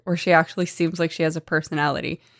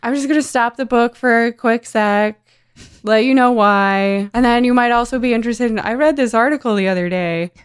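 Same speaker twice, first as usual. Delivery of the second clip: bright, louder chatty aside to the reader; chatty oversharing narrator; 5 semitones higher, 5 dB louder than usual. Retold or imitated. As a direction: gush to the reader like a friend. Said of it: "what kind of person is she picturing".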